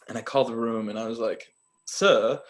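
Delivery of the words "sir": put-on British "sir"; mock London hotel official; badly faked British accent; awful London accent. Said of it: "this is a very awful accent".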